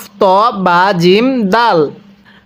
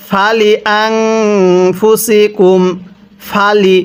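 long drawn Quranic reading; slow recitation; much slower than usual. Shown as a demonstration. Teacher reciting the next phrase to students, slow chant. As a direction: stretch the words like a reciter. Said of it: "এরপরে".

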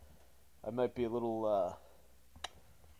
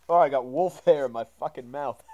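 ordinary talk

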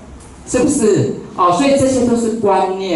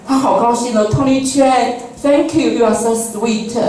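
pleased guest; 5 semitones higher than usual. Retold or imitated.

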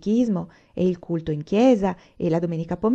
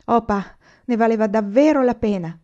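higher, louder, all stirred up; moved exclamation; 3 semitones higher, 5 dB louder than usual. Acted. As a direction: burst out gratefully to pa. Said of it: "esclamò Laura tutta emozionata". (esclamazione emozionata, più alta e forte)

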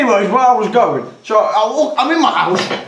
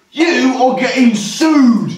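mock threat; 3 semitones higher, slower than usual. Acting out bloke's threat to sue.

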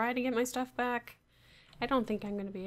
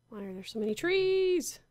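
exasperated; 3 semitones higher, 5 dB louder than usual. Real, not acted. Exasperated at endless trees.

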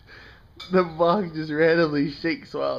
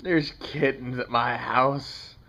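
slow sing-song announcement; 3 semitones lower, 4 dB quieter, slower than usual. Real, not acted.

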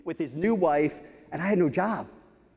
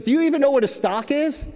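exasperated disbelief; 7 semitones higher, 3 dB louder than usual. Retold or imitated. Boss exasperated at new hire.

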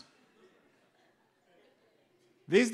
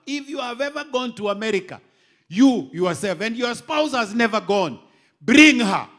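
preaching at full force; 5 semitones higher, 11 dB louder than usual. Acted.

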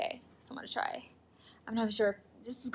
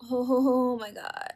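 stunned; 5 dB louder, slower than usual. Real, not acted. Pulling the strip off.

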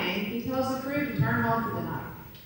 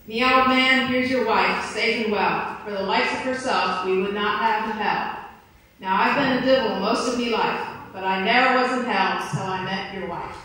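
louder, hammed-up devil; 4 dB louder than usual. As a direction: boom out the devil's punchline. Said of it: "the devil says".

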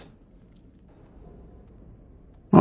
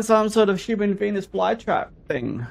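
hushed, barely voiced; whispering while hiding; 9 dB quieter than usual. Real, not acted.

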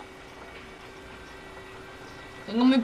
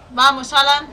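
louder, pressing the character on; urgent urging; 4 semitones higher, 8 dB louder than usual. Real, not acted. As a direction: push him on urgently. (animando con urgencia)

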